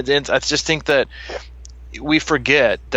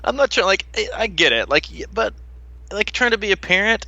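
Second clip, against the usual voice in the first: laughing exasperation; 8 semitones higher than usual. Real, not acted. Laughing exasperation about being great.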